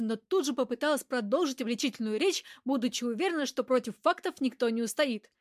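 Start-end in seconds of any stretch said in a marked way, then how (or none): none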